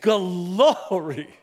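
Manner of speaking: Glory stretched into three syllables, Gal-or-e, high and loud; southern Indiana Glory. Retold or imitated. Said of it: "as they say in southern Indiana".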